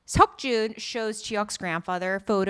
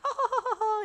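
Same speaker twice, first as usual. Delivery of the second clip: mock giggling; 12 semitones higher, much faster than usual. Imitating couple giggling.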